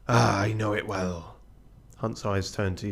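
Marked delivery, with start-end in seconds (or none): 0.1-1.4 piratey captain. Acted. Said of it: "He's back now".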